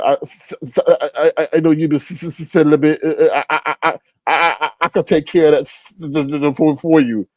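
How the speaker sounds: heavy mock stutter on every I; mocking Castro's stammer. Mocking Castro's stutter to the chat in a stammering voice. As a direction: stumble over each word like Castro. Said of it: "Castro go into the".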